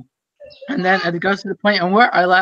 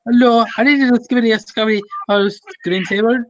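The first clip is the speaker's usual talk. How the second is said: raised, lightly imitated Indian accent; 4 semitones higher, faster than usual. Prankster calls with a silly request, mock Indian accent. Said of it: "with an Indian accent".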